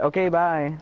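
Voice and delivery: a curt, dismissive mock goodbye; rude brush-off. Mocking how Valerie rudely ended the talk. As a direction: cut him off, like he's not worth your time. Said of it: "she said it's super rude".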